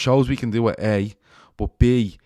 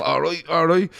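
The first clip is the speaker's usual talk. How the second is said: bouncy hello, higher and louder; cheery greeting; 7 semitones higher, 6 dB louder than usual. Pretend. Shawnee bouncing to work greeting everyone, cheery and loud. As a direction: greet passers-by like a happy morning walker. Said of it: "saying hello to everyone going down the road".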